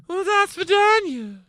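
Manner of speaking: put-on high, loud hammy Russian accent. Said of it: "I'm using my Russian accent right now".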